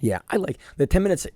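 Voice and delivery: hoarse whispered aside; barely any voice, whispering; raspy whisper. Real, not acted. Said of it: "I have no voice".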